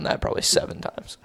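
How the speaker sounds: whispered aside; whispering. Real, not acted. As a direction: whisper the joke.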